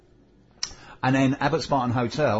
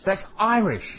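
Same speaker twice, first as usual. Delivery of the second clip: loud protest; 9 semitones higher, 4 dB louder, slower than usual. Real, not acted. Arguing the accent is Irish.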